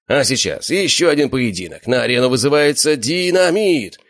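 loud, high ring announcer call; announcer shout. A narrator's reading. Ring announcer calling the fighter to the crowd, loud. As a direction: bellow it across the hall. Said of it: "закричал ведущий из зала".

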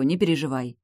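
calm her kindly; smiling reassurance. Acted. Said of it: "улыбнулась я".

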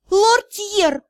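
high calling shout of his name. A narrator's reading. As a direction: call out to him sharply across the square. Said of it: "закричала она".

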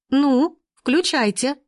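a spoiled lady snapping at the workers; high-pitched petulant shriek of a demand; shrill, capricious. A narrator's reading. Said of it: "визгливо-капризным тоном произнесла".

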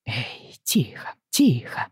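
soft soothing whisper. Acted. Father whispering to calm his crying daughter. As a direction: hush her gently in a whisper. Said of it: "зашептал он".

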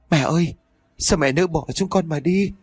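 a showy, insincere wail for the crowd; fake wailing. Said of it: "Đứa con dâu cũng giả bộ gào lên".

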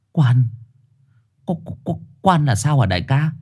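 scared stammer. Acted. Trùn terrified stammer.

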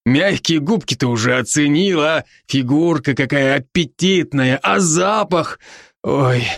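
бодрый, чуть выше голос друга-оборотня; успокаивает друга, слегка играя роль; Рон, заботливый друг. Acted. Ron's voice again. (оборотень Рон уговаривает друга дышать)

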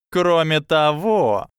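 slow musing start; thoughtful. A narrator's reading. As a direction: draw it out thoughtfully. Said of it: "задумчиво проговорила Падма".

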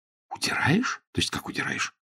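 high squeak of shock, then a breathless near-whisper; shocked friend echoing the news; stunned disbelief. Acted. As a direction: gasp it out in disbelief.

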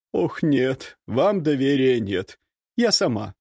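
put-on very high scolding servant girl; bossy maid. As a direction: scold him, half joking. Marusya voiced. (ворчливая служанка)

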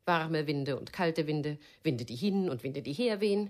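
langsam, höhnisch über Ellens Winde spotten; spöttisch. Acted. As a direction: die Winde lächerlich machen, gedehnt. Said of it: "mach dich nicht lustig über ihn". (Clarice verspottet vor Herb Ellens Winde, langsam und höhnisch)

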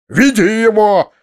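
very high, drawn-out furious yells; enraged shouting. A narrator's reading. Master orders servant to drag Foma in, enraged shouting. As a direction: bellow each order slowly in a high rage. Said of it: "закричал дядя, топая ногами".

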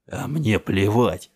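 loud, slow, defiant outburst; drawn-out angry shout; angry retort. A narrator's reading. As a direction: throw the refusal back loudly. Heated shouted argument at the car.

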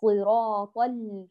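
صراط ال slow, with the hamza dropped and ط running into ال; صراط ال linked smoothly, with no hamza; correct linking. Shown as a demonstration. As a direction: join the ط straight into the ل. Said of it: "بل".

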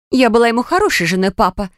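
mild wailing complaint to her father; Narine wails. A narrator's reading. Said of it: "запричитала Нарине".

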